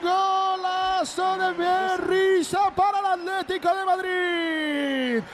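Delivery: roaring, chanted gol gol gol goal call; breakneck goal commentary. Real, not acted. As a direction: scream the goal like a radio commentator. Live goal call on radio.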